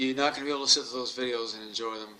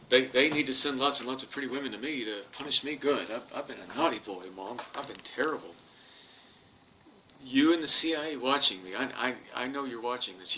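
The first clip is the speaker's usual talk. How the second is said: hammed-up plea to be punished; 5 dB louder than usual. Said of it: "my comeback was".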